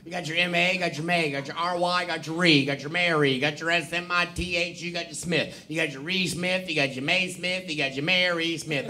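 sounding the name out syllable by syllable; building the name up from its sounds; phonetic syllables. Retold or imitated. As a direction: spell and sound out each piece of the name like a schoolkid. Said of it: "say your name in phonetic syllables".

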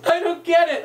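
high-pitched baffled listener; baffled aside. Retold or imitated. Rabbi imitates a baffled audience member to his friend, high and baffled. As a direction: raise it high in mock bewilderment.

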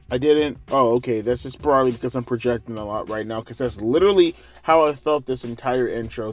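ordinary talk

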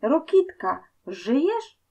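high-pitched searching call. A narrator's reading. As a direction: call to someone out of sight. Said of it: "woła Bulandra".

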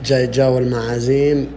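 deep pretend man's voice. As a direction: drop the voice low like a grown man. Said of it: "غير صوتك".

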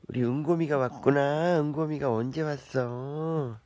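cooing pet talk. Real, not acted. Greeting the cat affectionately. (고양이에게 다정하게 말하는 아기 말투)

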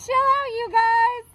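warning. A narrator's reading. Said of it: "the ice cubes warned".

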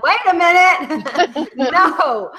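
high, loud, laughing protest; mock objection. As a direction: cut in with exaggerated, amused indignation. Acts out objection to outsiders.

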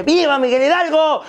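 high, rousing ceremonial call; Grito leader's cry. Acted. Comic acting out the leader of the independence Grito, crying out. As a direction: call out a patriotic cheer to the crowd. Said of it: "el grito".

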